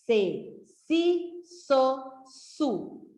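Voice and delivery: each syllable said apart; teacher drilling the s syllables. Shown as a demonstration. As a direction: sound out sa se si so su one by one. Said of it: "palavras com sa".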